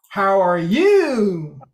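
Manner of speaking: slow, falling at the end; slow falling question. Shown as a demonstration. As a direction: let it fall away at the end. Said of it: "in the middle of a sentence".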